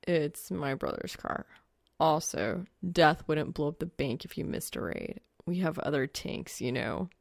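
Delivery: a hint of a dry guy's voice; lightly voiced young man. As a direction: answer her dry and unbothered. Narrator voices Soul, deadpan.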